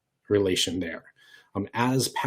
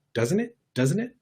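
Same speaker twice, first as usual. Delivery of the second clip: much higher, rising question; voice going up; 9 semitones higher than usual. Shown as a demonstration. Showing the class how nerves push the voice up, high and rising. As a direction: let the voice shoot up high to show nerves. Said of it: "your voice goes up like that".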